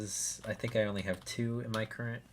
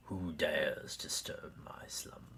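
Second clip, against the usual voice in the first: sleeping ancient god; 4 semitones lower, slower than usual. Acted. Reading card flavor text in voice.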